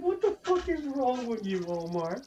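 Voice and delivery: high, slow, exasperated mom voice; shrill mock mom. Mom scolding her son Omar over the streamer, in a high mock voice. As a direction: ham up a scolding mother. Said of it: "she's probably like".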